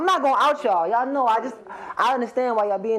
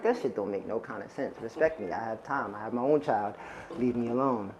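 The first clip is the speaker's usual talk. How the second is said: tag; 8 semitones lower, 7 dB quieter than usual. Retold or imitated. Retold reply to boss, muttered.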